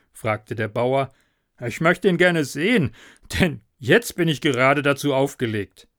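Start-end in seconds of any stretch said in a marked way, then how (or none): 1.6-5.9 the tipsy farmer, louder and eager; a merry, bold peasant calling for the devil; tipsy farmer demanding to see the devil. Acted.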